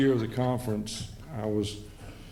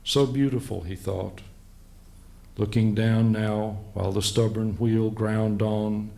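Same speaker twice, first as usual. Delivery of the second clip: slow, deliberate verse recital; measured poetry reading with spaced-out phrases; poem reading. Acted. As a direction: read it as a poem, pausing between images. Reads his poem aloud.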